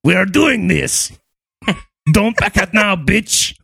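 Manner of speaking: a high mock voice urging; high squeaky pact voice. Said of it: "put your heads together and go".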